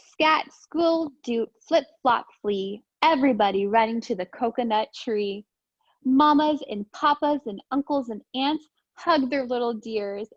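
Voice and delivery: lively storybook read-aloud; sing-song picture book reading; reading to children. Acted. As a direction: read it bouncy for little kids. Reads picture book to class.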